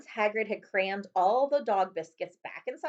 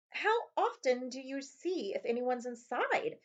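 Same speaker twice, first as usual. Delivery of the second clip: put-on slow, higher boyish voice; young Harry voice; 6 semitones higher, slower than usual. A narrator's reading. Harry asking the goblin about the vault, boyish voice. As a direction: ask it like a wide-eyed boy.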